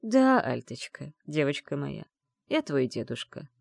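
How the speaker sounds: gentle, unhurried reassurance; tender. Acted. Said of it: "с ласковой улыбкой". (ласково, с улыбкой)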